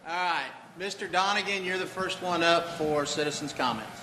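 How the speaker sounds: projected drill-sergeant call; Marine voice. Real, not acted. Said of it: "I'll just use my Marine voice".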